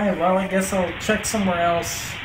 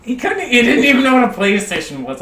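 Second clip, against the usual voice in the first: excited; 7 semitones higher, 9 dB louder than usual. Real, not acted. Excited recap after prank call.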